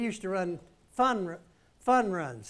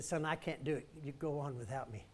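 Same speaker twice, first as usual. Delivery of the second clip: much softer, lower, worn-out plea; exhausted giving up; 4 semitones lower, 9 dB quieter than usual. Retold or imitated. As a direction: sound spent and defeated. Tired father giving up.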